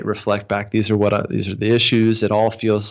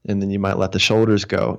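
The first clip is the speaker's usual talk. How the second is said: hypnosis voice. Shown as a demonstration. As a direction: ease them into letting go. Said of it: "hypnosis voice".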